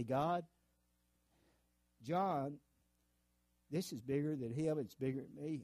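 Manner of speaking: sincere prayer over a friend, measured phrases; earnest intercession with pauses after each address; demonstrated prayer. Shown as a demonstration. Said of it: "Here's the way I do it".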